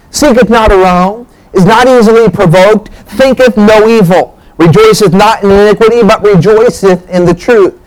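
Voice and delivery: measured phrases recited from the pulpit; scripture reading. Acted. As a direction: read the verses out, slightly lifted in pitch. Reads a Bible passage aloud.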